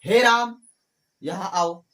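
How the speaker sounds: a loud call of Ram's name; sudden loud call to Ram. Shown as a demonstration. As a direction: call across the room. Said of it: "संबोधन कारक".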